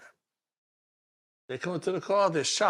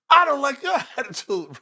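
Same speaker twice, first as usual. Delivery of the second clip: laughing mock echo; 11 semitones higher, 8 dB louder than usual.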